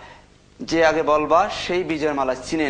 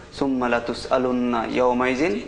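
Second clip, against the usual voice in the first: slower, measured recital of a verse; quoting the Quran; 3 semitones lower, slower than usual. Shown as a demonstration. Teacher quoting a Quran verse to the children, slowly. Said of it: "আল্লাহ নিজে বলেছেন".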